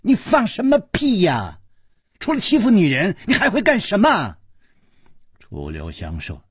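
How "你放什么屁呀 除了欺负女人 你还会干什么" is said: high, tearful angry yell; crying yell. A narrator's reading. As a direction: shout through tears. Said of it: "跳起来哭吼着说". (哭着怒吼)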